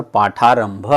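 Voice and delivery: "पाठारंभ" with a long आ in ठा; लंबा आ उच्चारण. Shown as a demonstration. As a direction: hold the joined vowel in "पाठारंभ". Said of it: "आ का उच्चारण हो रहा है". ("पाठारंभ" में ठा का आ लंबा करके)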